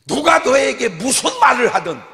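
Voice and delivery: 높고 크게 외치며; 회중에게 힘주어. Real, not acted. (높게 외치는 강조)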